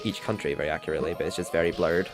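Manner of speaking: ordinary talk, nothing marked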